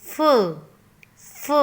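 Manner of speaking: teacher repeating the sound फ; phonic sound demo. Shown as a demonstration. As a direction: model फ for kids. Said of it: "Sound of F is".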